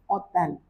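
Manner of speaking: ओतल with silent h; French hôtel. Shown as a demonstration. Teacher models ओतल, dropping the h. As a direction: say ओतल, no h at start. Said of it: "इसको आप बोलोगे".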